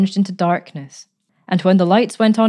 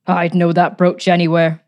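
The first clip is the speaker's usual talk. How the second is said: sullen; 5 dB louder than usual. Acted. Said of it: "she said sullenly".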